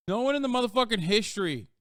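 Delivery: exasperated emphatic rant; emphatic outburst. Real, not acted. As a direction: raise your voice on "motherfucking history". Emphatic restatement, louder and higher.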